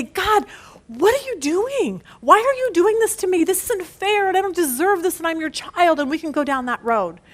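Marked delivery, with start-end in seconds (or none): 0.0-6.0 a touch of a bitter plea to God, pitched higher; mock bitter complaint. The pastor voices a bitter believer's complaint to God, mild mock protest. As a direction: voice a hurt believer asking God why, lightly. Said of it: "be angry and bitter and say".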